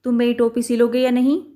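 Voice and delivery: angry mouse yells at the tailor; mouse shouting. Acted. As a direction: yell the question at the tailor. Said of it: "वह ज़ोर से चिल्लाया".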